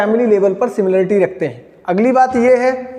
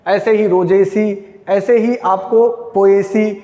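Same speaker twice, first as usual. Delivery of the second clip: slow dictation; 2 semitones lower, much slower than usual. Shown as a demonstration. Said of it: "इसलिए यहाँ पर always Solanaceae".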